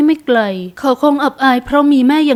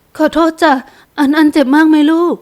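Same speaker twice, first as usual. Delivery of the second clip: lightly voiced mother fussing over her child; a touch of motherly concern, slightly lifted; 4 semitones higher than usual. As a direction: apologise anxiously to a little son. Mother apologises to hurt son.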